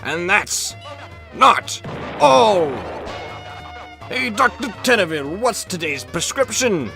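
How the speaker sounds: hyped TV announcer voice; booming prize announcer. Acted. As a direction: sell the prize like a showman. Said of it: "prize announcer read".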